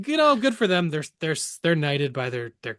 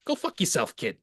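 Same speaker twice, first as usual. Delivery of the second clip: put-on dismissive Boston accent, quieter; Boston tough guy; 6 dB quieter than usual. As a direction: brush them off like a Boston local. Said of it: "about Boston guy being like".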